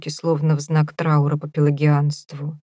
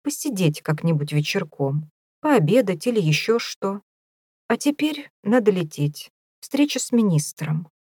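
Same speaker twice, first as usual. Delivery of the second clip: vague farewell; 3 semitones higher than usual. Acted. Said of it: "неопределённо стал он прощаться".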